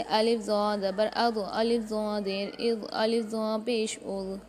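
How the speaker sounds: slow drill, "अज़" ending in a heavy voiced th; full, rounded emphatic sound on "ज़ो"; thick, full zaa. Shown as a demonstration. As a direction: close "अज़", "इज़", "उज़" thick and dark, tongue at the teeth. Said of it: "हर हाल में मोटा पढ़ा जाएगा".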